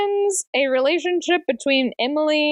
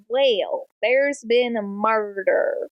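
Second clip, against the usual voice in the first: hammy fake Southern drawl, slowed down; Michael Scott's fake accent; much slower than usual. Narrator announcing a murder, fake Southern accent. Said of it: "I say in the Michael Scott fake accent from The Office".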